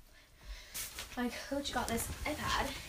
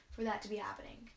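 trailing whisper; 5 dB quieter than usual. Real, not acted.

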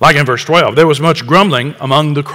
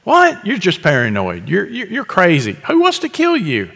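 mocking disbelief; 2 semitones higher, 4 dB quieter than usual. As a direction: scoff at him as paranoid, pitch jumping up. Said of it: "There's this crowd".

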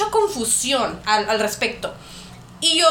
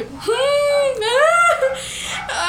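high mortified whimper-groan; a squirming groan of shame, rising high; girl cringing as all the kids turn, embarrassed groan; 11 semitones higher than usual. Retold or imitated. Embarrassed child in front of classmates.

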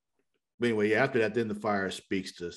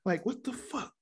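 high-pitched incredulous complaint, growing louder; mock exasperation; 12 semitones higher, 4 dB louder than usual. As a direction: imitate someone fed up, pitched way up. Retelling Joe and Cecile venting.

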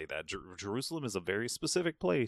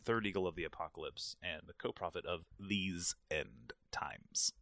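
imitating preacher; 3 semitones lower, 6 dB quieter than usual. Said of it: "he usually says it like that".

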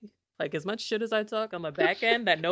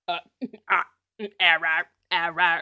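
mock stammering noises; 6 dB louder than usual. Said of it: "What is happening?".

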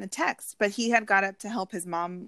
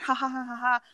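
mock taunting laugh; 4 semitones higher, faster than usual. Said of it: "Like, laughing".

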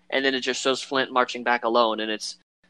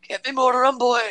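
higher mock pirate yell; 11 semitones higher, 4 dB louder than usual. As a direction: holler for rum from downstairs. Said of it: "thing, like".

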